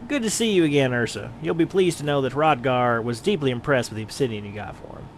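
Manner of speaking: lightly voiced kindly old guildmaster; a hint of a fond teacher praising a student; proud mentor. Mentor congratulates Ursa on beating Wide Gully, lightly voiced fond pride.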